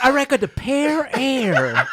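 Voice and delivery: slow, giggling line; laughing through it. Acted. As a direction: crack up mid-joke. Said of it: "You say you like a what?".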